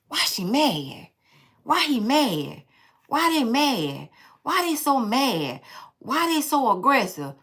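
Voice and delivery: slow, softened mock questioning; imitated questioning. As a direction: ask it slowly, imitating a puzzled person. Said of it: "kind of person that'll say".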